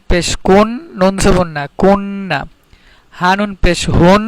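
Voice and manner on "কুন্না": কুন্না with a long held ন; doubled consonant. Shown as a demonstration. Teacher showing the tashdid rule, কুন্না with doubled ন. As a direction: linger on the n in কুন্না, then release. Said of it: "একটা অক্ষর দুইবার উচ্চারণ করতেছি".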